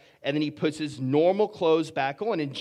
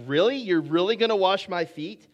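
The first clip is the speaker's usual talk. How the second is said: higher, rising disbelief; incredulous question; 4 semitones higher than usual. Acted. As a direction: ask it as an astonished disciple. Acting out Peter's disbelief.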